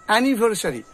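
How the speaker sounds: অ্যানিভার্সারি as "a-ni-bhar-sa-ri"; full "sa" in অ্যানিভার্সারি; five syllables, "anivarsari", for অ্যানিভার্সারি; common mispronunciation. Shown as a demonstration. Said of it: "আমরা কি বলি".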